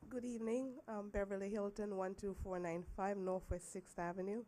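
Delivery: rough voice, getting over the flu; hoarse from the flu. Real, not acted. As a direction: speak through a sore, hoarse throat. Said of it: "Excuse my voice. I'm just getting over the flu".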